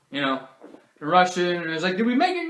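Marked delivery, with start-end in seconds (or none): 2.0-2.5 high, loud mock-panicked question; frantic questioning. Family rushing to the plane, frantic question. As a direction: ask it like a breathless late traveler.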